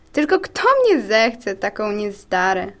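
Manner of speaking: slow, forlorn question, sinking and softening; sad monologue. Acted. Clumsy white cell doubting anyone wants her, forlorn. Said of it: "Ten smutny monolog".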